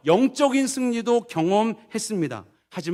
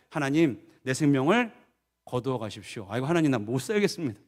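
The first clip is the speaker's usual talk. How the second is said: lower-pitched, lightly acted lament; weary plea; 8 semitones lower than usual. Elijah begging God to take his life, mildly weary plea. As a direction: sigh out a mild, worn-out plea.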